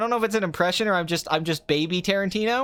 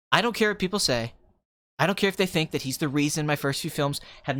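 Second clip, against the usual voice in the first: low, self-important director monologue; imitated smug auteur, measured and emphatic; Quentin Tarantino; 4 semitones lower than usual. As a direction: boast deliberately, pitched low. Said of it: "Okay, Quentin".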